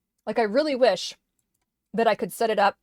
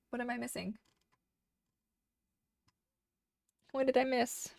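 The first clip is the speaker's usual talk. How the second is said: quiet muttering; 3 semitones higher, 10 dB quieter than usual. Real, not acted. Quietly reading along and muttering.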